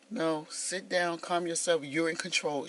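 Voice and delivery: soft, slow calming self-talk under the breath; hushed self-calming. Retold or imitated. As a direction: quietly talk yourself down, slowly. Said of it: "talk myself down".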